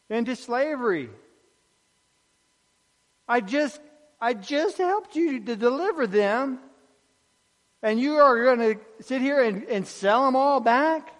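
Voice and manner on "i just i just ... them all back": higher, exasperated Nehemiah voice; a leader who can't believe what he's hearing; indignant Nehemiah. Acted. Nehemiah rebuking the people who resold slaves, higher and incredulous.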